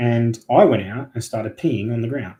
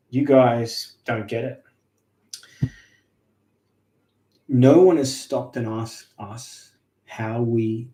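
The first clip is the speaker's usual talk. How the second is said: put-on old tree speaking; slower than usual. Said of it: "felt like this old grandpa voice".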